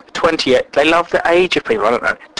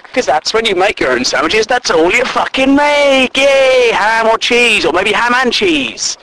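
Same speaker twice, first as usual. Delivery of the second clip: loud, high, exasperated rant; 7 semitones higher, 8 dB louder than usual. Real, not acted. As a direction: rant about it at full volume. Loud excited sandwich rant.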